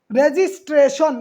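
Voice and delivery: "রেজিস্ট্রেশন" slowly, with sh in the last syllable; sh-sound demo. Shown as a demonstration. Teacher shows students the spelling rule, "রেজিস্ট্রেশন" slow with final "-shon". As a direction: draw out "রেজিস্ট্রেশন", ending in "-shon". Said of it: "এখানে দন্ত স দিতে পারবেন না".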